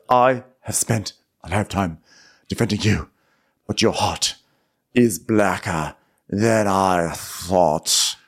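halting, weighty royal rebuke; solemn king. Retold or imitated. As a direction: pause between phrases, drawing out the end.

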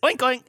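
oink imitation. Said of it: "pigs sound like this".

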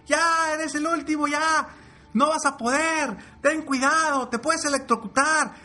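very high scornful shouts; mock the last frog on the climb; jeering animals. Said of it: "todas le gritaban". (gritos muy agudos de burla)

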